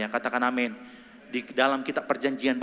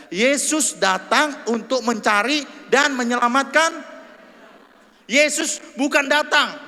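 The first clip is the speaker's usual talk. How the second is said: fervent preaching; 11 semitones higher, 8 dB louder than usual. Acted. Preacher proclaims Jesus came for sinners, high and loud. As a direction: preach it with fire.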